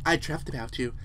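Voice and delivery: a hint of intimate murmured longing; lewd game character. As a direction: read it as a mildly sultry confession. Reads suggestive game text in character.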